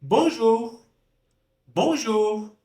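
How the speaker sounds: "Bonjour" high and careful, nasal on; model French. Shown as a demonstration. Teacher giving the answer to the exercise. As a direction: pronounce "Bonjour" slowly and clearly. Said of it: "Vamos ver se você pronunciou assim".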